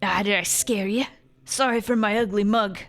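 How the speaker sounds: lightly voiced dwarf with an accent; a hint of a put-on game character; Seem. Dwarf apologizing to a startled Sophie, lightly put-on accent. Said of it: "I have to do an accent".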